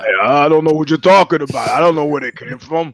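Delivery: lightly voiced defensive fighter; Shane Carwin impression. Friend impersonates fighter denying mailed steroids, lightly voiced. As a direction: play dumb, deflecting the question. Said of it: "Your Shane Carwin impression is completely off".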